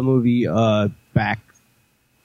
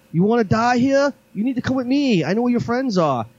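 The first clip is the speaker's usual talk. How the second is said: higher mock Asian accent, urging; lightly put-on Asian accent, warning him; imitating a movie character's Asian accent; 10 semitones higher than usual. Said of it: "I'm not trying to do an accent".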